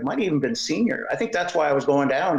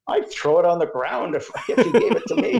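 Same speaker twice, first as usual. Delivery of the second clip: laughing; 3 semitones higher than usual. Retold or imitated. Joking retort in the story.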